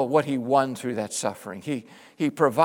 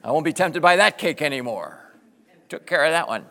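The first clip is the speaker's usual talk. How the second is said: mock satisfaction; 4 dB louder than usual. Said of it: "and say".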